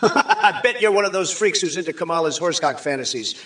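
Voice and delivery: laughing through the taunt. Acted. Jeering at a chat user, laughing through it. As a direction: chuckle while you jeer.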